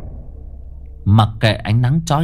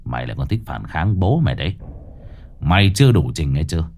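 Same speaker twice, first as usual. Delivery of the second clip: low, fast, taunting exorcist; mocking summons; 4 semitones lower than usual. Cậu Tẩy summoning the ghost, low and scornful. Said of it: "Cậu mở mắt nhếch mép".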